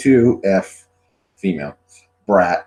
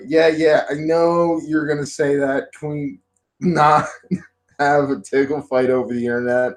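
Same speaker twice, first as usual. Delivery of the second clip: higher, weary protest; retold exasperation; 5 semitones higher than usual. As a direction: plead through a laugh. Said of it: "I go".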